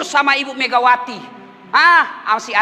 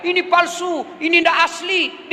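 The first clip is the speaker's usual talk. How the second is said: menirukan orang teriak; 4 semitones higher than usual. Retold or imitated. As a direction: imitate people crying foul, lightly. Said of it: "apalagi orang teriak". (pura-pura teriak protes bernada tinggi)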